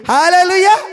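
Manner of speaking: high ringing hallelujah shout; loud hallelujah. Real, not acted. Preacher calling hallelujah to the congregation, loud.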